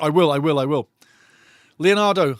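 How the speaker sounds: ordinary talk, nothing marked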